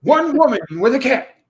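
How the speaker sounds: mock announcer intoning a film tagline. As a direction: do an over-dramatic trailer announcer impression. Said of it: "I did the announcer".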